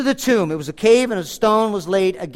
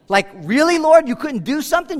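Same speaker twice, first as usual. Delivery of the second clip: mock exasperation; 6 semitones higher than usual. Mocking the doubters' complaint.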